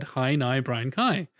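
lightly Northern Irish, from the vowels alone. Shown as a demonstration. Repeating the trick for the others, Northern Irish. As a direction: swap the ows for Northern Irish eyes. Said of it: "it sounds Northern Irish".

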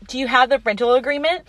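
sassy clerk's question, lilting up at the end; sassy comeback. Retold or imitated. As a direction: ask briskly with mock-polite sass. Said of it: "her sass back is peak comedy".

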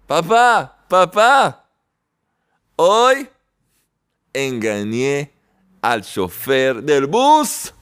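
put-on high, eager little boy calling his dad; a kid running in to brag to his father; excited child. Child running home from school to his father, high and eager. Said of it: "y corre a su padre".

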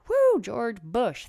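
slow, loud mock whoop; mock cheer. Mocking the president's Patriot Act with a hammed-up slow cheer. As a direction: cheer him on with a sarcastic woo.

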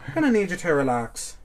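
put-on Irish accent. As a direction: say it like an Irish bloke. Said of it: "I went back to Irish".

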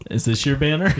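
magician reveal. Pretend. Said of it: "Like it's a magic trick".

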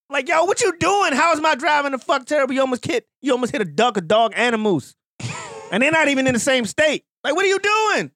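outraged at a reckless UPS driver; yelling at driver. Retold or imitated. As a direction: rant at the terrible driver.

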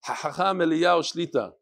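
put-on Sephardic accent, guttural ches in Hachacham. Reader follows the email's instruction on a title, Sephardic accent. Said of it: "Make sure to read this with the Sephardic accent".

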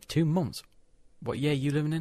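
incredulous. Real, not acted. Correcting a friend's muddled dates, incredulous. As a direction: call out the mistake in disbelief.

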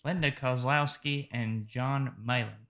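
put-on lightly Australian-accented names; a hint of Aussie on the film credits. Host reading the film credits with a hint of Australian accent. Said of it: "I tried to use a bit of an Australian accent there to pronounce those names".

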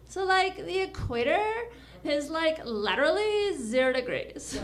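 a hint of valley-girl lilt on like; mild valley girl airiness. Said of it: "here's my impression of a valley girl".

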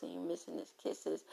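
breathy whisper, "kisses" barely voiced; whispered longing. Woman alone at night missing him, soft whisper. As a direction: drop to a whisper as if confessing.

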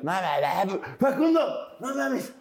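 high, pleading no no; mock pleading whine; excited protest. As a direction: beg Facundo to drop it, high-pitched.

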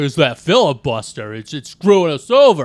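mock Jimmy Stewart griping about the filibuster; attempted Jimmy Stewart. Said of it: "That's like J F K".

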